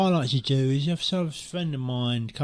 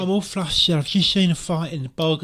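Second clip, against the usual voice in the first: mock flustered; 2 semitones higher than usual. Faked flustered shock in pub.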